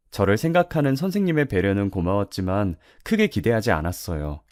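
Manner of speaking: usual speaking voice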